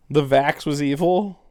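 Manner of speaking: a doubtful echo, rising at the end; incredulous question. Shown as a demonstration. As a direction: repeat the name back in disbelief.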